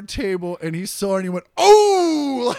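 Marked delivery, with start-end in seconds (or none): 1.6-2.6 loud, high burst of shock; startled yell. Retold or imitated. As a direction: blurt it out at full volume. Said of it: "Like that".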